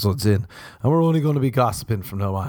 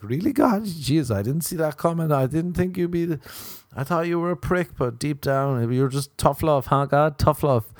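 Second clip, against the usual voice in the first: mock awed surprise; 7 semitones higher than usual. You greeted into heaven by God.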